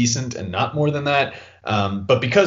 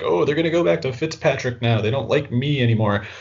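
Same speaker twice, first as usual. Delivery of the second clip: higher-pitched mock worry; mock paranoid rookie; 4 semitones higher than usual. Analyst imagining the rookie fearing a benching, mock worried. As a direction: lightly imitate a fretting rookie. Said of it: "he'd be kinda loony to".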